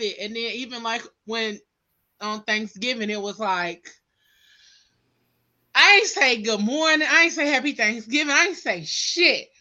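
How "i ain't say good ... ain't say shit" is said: raised, emphatic, slowing at the end. Retold or imitated. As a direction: vent it, punching each I. Retold own outburst to aunties.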